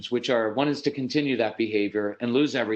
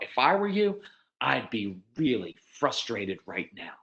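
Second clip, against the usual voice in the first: acted sympathy for an upset child; gently side with the child, softening; empathetic parent; 3 semitones lower than usual. Mother voicing empathy to child.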